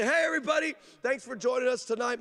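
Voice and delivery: high, chipper mock TV host; on-air greeting. Switches to cheerful on-air host.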